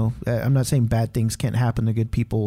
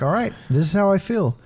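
retold outburst; 7 semitones higher than usual. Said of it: "Man, I was mad".

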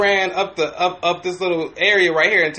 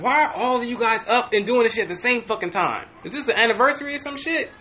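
amused disbelief; 5 semitones higher, 4 dB quieter than usual. Retold or imitated. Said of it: "I was like".

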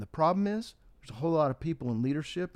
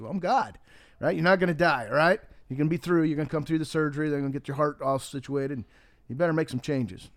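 booming God. Retold or imitated. God promises the dying man he will live, firm and confident. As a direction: play God as firm and sure of himself.

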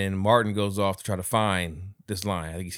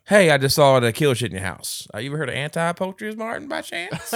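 teasing, knowing character voice; sly question; 5 semitones higher, 3 dB louder than usual. Retold or imitated. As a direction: lean in slyly with a leading question.

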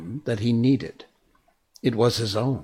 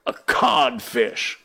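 codfish reply; slower than usual. Acted. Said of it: "replied the voice".

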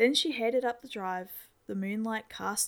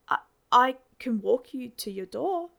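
eager and louder, rushed; quickly; 4 semitones higher, 8 dB louder than usual. Acted. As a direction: blurt the offer out eagerly. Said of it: "I said quickly".

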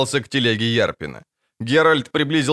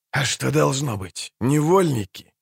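understated sarcastic jibe; 2 semitones higher than usual. A narrator's reading. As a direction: needle the soldier with dry mockery. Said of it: "съязвил Янник Брас". (язвительно, с издёвкой)

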